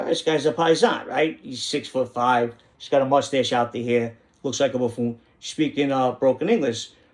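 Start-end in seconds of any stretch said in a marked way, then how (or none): none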